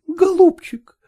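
a hint of a woman begging her lover; pleading woman. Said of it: "упрашивала Катерина Петровна". (мольба молодой женщины, слегка)

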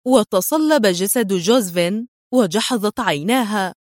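ordinary delivery

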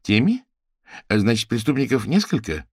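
a sharp, high questioning rise on «Теми»; surprised question. Acted. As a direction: echo «Теми» back in disbelief, pitch climbing. Luchkov questions the plural.

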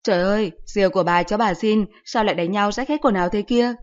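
loud grandmother's scolding cry; an old grandma scolding the children loudly; booming grandmother. Acted. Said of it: "tiếng ầm ấm quen thuộc".

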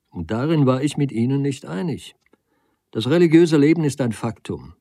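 lightly voiced debater, emphatic openings; a hint of impassioned oratory; Nagel arguing earnestly. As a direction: press the argument, easing toward the end. Nagel argues his case.

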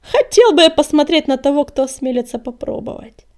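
loud brazen challenge, easing at the end; cocky, defiant taunt; Коготь, insolent. A narrator's reading. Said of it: "нагло переспросил Коготь".

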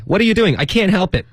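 high, animated acted dialogue; acted exchange. Teacher acts Joey's shock and Phoebe's excuse, high. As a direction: play both sides of the quarrel.

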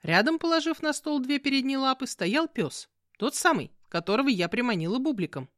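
ordinary delivery

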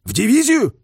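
loud, high, startled queries; incredulous questions. A narrator's reading. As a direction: fire back short questions in disbelief. Incredulous at order on the phone.

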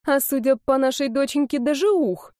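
high, playful tease; mother teasing her daughter with delight. Acted.

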